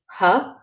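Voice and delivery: "huh" led by a breathed H; H sound. Shown as a demonstration. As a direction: say "huh" to show the plain H. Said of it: "is pronounced an H".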